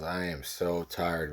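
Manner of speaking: slow, lightly acted weariness; tired examiner. Examiner complaining after a night out, lightly acted tiredness. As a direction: stretch the words, mildly imitating exhaustion.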